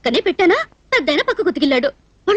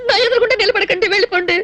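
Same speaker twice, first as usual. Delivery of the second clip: weepy dismissal; a touch of crying; tearful. Acted. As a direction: send him away through tears. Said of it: "ఎందుకు ఏడుస్తున్నట్టు".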